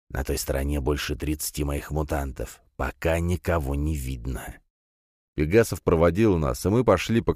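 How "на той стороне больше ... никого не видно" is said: muttering. Acted. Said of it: "Затем пробормотал".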